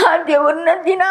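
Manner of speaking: breaking down as she speaks of praying; crying. Real, not acted. Grandmother telling how she prays daily, crying. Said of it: "ಅಳ್ಬೇಡಿ".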